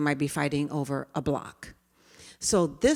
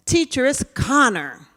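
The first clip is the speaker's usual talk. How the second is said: put-on tattling child; 6 semitones higher, 9 dB louder than usual.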